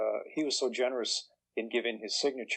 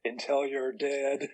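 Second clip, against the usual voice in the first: slow, amused, holding back a laugh; smile in his voice; 2 semitones higher, slower than usual. Retold or imitated. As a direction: let a grin leak into it. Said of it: "very smile in his voice".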